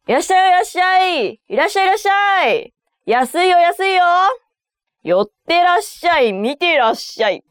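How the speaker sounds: high, fast fishmonger's sales patter; market hawker call. Acted. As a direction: call out to passing shoppers like a fishmonger. Fish market seller calling customers.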